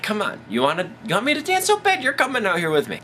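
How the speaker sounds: high-pitched put-on Southern woman; exaggerated bossy Southern gal; southern accent. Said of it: "didn't really have a southern accent".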